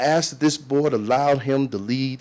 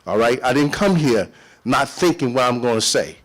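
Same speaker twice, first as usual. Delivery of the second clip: indignant; 2 semitones higher than usual. Real, not acted. Arguing back at chair.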